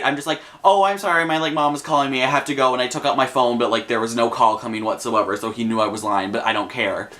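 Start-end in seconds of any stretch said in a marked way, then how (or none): 0.6-2.7 politely excusing herself. Retold or imitated. Teen making an excuse to a creepy stranger, polite. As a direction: make a courteous excuse to get away. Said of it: "trying to be really polite".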